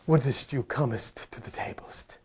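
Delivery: slow, hushed, mock-polite old English; mocking a genteel voice that isn't there; mock gentleman. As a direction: whisper it like a prissy gentleman. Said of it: "There's no gentleman in there saying".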